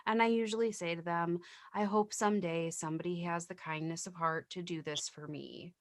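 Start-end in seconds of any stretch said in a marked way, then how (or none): 1.7-5.7 tender line. Retold or imitated. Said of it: "my more tender, gentle line".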